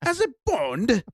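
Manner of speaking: outraged British toff. Pretend. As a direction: play a scandalised old English gent. Mock outraged British gentleman.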